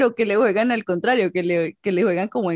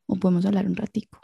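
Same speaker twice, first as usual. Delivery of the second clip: sexy voice; 3 dB quieter than usual. Shown as a demonstration. Woman flirting with Santi for show, coaxing in a sexy voice. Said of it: "hace como siete años no hablo así".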